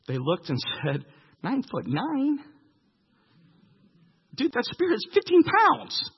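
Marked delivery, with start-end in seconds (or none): 1.4-6.1 high, half-laughing disbelief at the giant's size; awed soldier. Retold or imitated. Terrified soldier marvels at Goliath's huge spear, high and incredulous. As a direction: gape at the giant like a stunned buddy.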